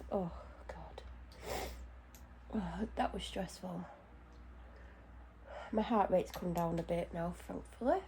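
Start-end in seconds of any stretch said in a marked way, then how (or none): 0.1-3.9 much softer, breathy relief; relieved sigh. Real, not acted. Vlogger calming down after the scare, soft relieved sigh. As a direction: let the fear drain out softly.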